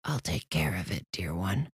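low, soft choked voice; choked demon voice. A narrator's reading. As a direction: soothe her with a low choked voice. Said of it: "the other voice replied".

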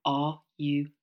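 soft, slow mock-caring drawl; a slow, sugary mock hun. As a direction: coo it like a sickly text. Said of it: "my other phrase I can't bear".

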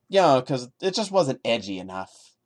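sarcasm. Real, not acted. Sarcastic comment.

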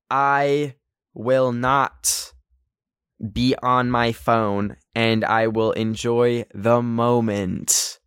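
drawn-out solemn affirmation; slow, earnest affirmation. Shown as a demonstration. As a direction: slowly stretch out each word like a vow. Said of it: "Repeat after me".

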